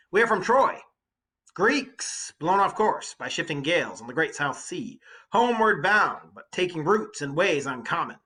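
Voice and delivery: loud, high, earnest plea to a giant; Odysseus pleading. Acted. Odysseus addressing the Cyclops, loud earnest plea. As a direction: speak up bravely, begging for mercy.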